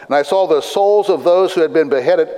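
measured, deliberate Bible reading; scripture reading. Acted. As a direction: read scripture aloud to a congregation. Reads scripture aloud to congregation.

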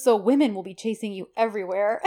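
sassy retelling. Retold or imitated. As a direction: tease him as she would, with sassy emphasis. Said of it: "She's so sassy".

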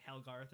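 "Helgarth" with "Hel" as the first syllable; name said wrong. Retold or imitated. Agent getting the boy's name wrong, saying "Helgarth". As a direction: mispronounce it as "Helgarth". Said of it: "he says his name wrong".

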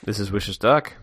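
lightly quacky duck voice; a hint of Donald Duck. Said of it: "A segment where we try to sound like Donald Duck".

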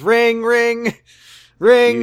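mock kid voice; little kid. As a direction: play a toddler pretending a phone. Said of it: "And then John says".

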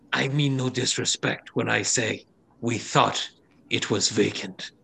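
careful, halting, mildly apologetic voice; retreating reptilian woman. Acted. Reptilian woman excusing herself to dwarves, careful. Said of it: "she kind of retracts a little".

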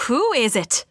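put-on shaky grasp of an Irish accent; attempted Irish accent. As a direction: try the question in an Irish accent. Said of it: "That's nothing".

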